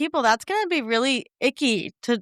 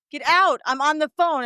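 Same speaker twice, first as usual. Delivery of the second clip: raised-pitch, mild mock yell; 6 semitones higher than usual. Parent on the phone to a six-year-old, mild mock yell. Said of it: "And you, you yell".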